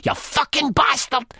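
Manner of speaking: very high-pitched furious shout; shouted insult. A narrator's reading. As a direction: shout it as an outraged accusation. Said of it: "and she shouts".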